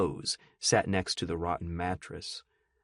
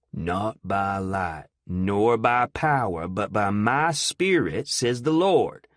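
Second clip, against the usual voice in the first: solemn scripture; 3 dB louder, slower than usual. Acted. Eustace quoting scripture solemnly.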